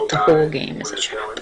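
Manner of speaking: hushed, breathy whisper. Acted. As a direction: whisper it like a dark secret. Ominous aside about the game.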